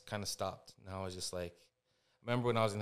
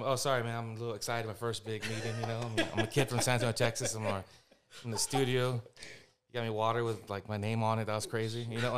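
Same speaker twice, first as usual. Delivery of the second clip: a touch louder, eager and rushed; excited nervous kid; 3 dB louder than usual. Retold or imitated. Retelling himself gushing to the producer, mildly excited. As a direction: gush like a kid at his first meeting. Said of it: "And I'm".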